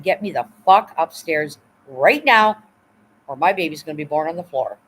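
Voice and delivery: firmly telling off the orderly to take her upstairs now; retold angry demand. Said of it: "exact words".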